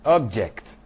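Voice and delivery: "object" with JECT stressed; stress on second syllable. Shown as a demonstration. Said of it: "is in the placement".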